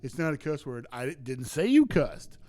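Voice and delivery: mock yell telling Frank off. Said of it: "yell at him every single time".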